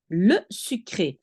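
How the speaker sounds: sucré with a clear closing é; slow, land on the final é of sucré; French word. Shown as a demonstration. Teacher showing the accented e of sucré. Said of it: "if you say sucré".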